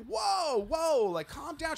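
high-pitched retold plea to calm down; high, imitated attempt at placating; startled placating. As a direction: raise the pitch to talk someone down. Retelling trying to calm screaming woman.

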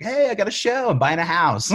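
high, loud boastful brag; mock bragging. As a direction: show off like a newly rich kid. Mocking boastful self in past.

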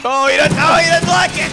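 high loud shout; panicked shout. Acted. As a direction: yell in alarm.

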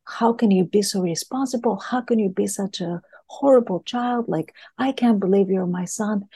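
mock scolding of a careless child; retold angry mother berating her son. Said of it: "the mother is angry with the child".

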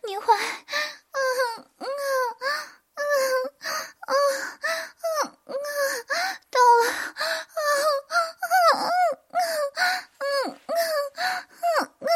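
high crying moans, building to peak; climactic moaning. Acted. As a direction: cry out in pleasure. Heroine voiced at climax.

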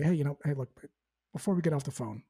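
calm, understated sales reply. Shown as a demonstration. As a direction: ease in calmly, no pressure. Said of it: "in a very calm voice".

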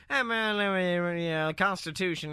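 mock Southern slur with one clear word; imitated Southern mumble. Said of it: "you'll hear one word thrown in there".

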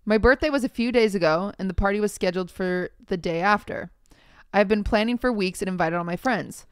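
measured story-reading voice; reading aloud. Acted. Podcast host reading a Reddit post to co-host, reading aloud. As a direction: read the post out evenly.

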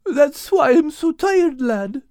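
put-on Irish accent. Al explaining his night's work, Irish accent. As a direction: explain wearily with a brogue.

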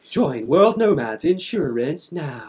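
slow, hammed-up advert read; mock advert voice. Mocking their own sponsor with an ad voice. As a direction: announce it like a cheesy ad.

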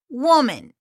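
"woman" in a Spanish accent, sounding like the singular; Spanish-accented "woman" with the singular vowel; Spanglish accent slip. Shown as a demonstration. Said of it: "sorry, that's my accent".

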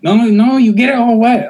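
high-pitched put-on Asian accent; exaggerated Asian-accented complaint; mock Asian accent. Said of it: "I still did an Asian accent".

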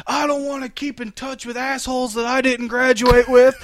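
a hint of an irritated father; grumpy dad. Son voices grumpy dad.

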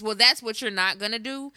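level, firm imitation of mom; matter-of-fact mother. Mama laying down the law to grown child, matter-of-fact. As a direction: state it as settled, no room for debate. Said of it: "in a very matter-of-fact voice".

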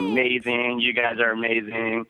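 nervous fan voice. Pretend. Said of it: "that nervous fan voice".

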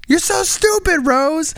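put-on high old-Hollywood dramatic voice; Titanic movie voice. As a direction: ham it up like a Titanic lover. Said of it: "I wanted to say".

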